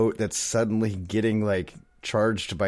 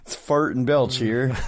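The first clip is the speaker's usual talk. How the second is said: radio host; 3 semitones higher, 4 dB louder, slower than usual. Pretend. Joking radio show intro.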